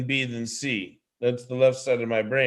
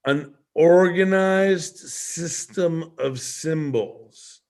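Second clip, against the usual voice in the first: said very slowly, word by word; a slow teacher's repeat; slow emphatic repeat; 3 semitones higher, much slower than usual. Shown as a demonstration. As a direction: stretch every word for emphasis. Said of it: "I'm gonna say that again".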